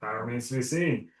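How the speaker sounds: even, noncommittal reply; neutral, non-responsive. Acted. Player deflecting a question in character, totally neutral. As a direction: keep it carefully noncommittal. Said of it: "totally neutral, non-responsive statement".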